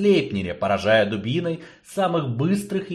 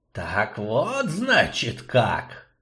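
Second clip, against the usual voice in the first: creaky, ominous drawn-out sorcerer; sinister creaky drawl; much slower than usual. Acted. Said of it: "зловеще протянул он скрипучим голосом".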